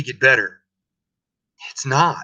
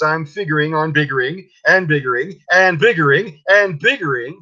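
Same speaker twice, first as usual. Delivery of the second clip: mildly raised, defiant rant; yelling at the Lorax; 3 semitones higher than usual. Acted. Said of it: "I yelled at the Lorax".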